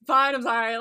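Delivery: mock grudging apology; insincere apology. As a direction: imitate someone forced to say sorry. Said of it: "he made it sound so insincere".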